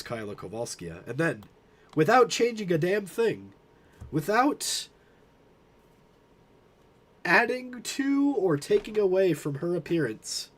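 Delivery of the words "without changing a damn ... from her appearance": hyped-up narration. Acted. Building up a meme punchline.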